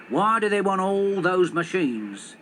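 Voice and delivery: put-on slow, cross grumble of an old taxi driver. Taxi driver grumbling crossly at the car park machines. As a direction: complain crossly about the machines. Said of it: "said Mister Jones crossly".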